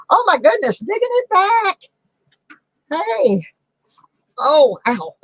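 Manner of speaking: high strained voice while reaching; effort grunt. Real, not acted. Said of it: "I keep grunting and groaning".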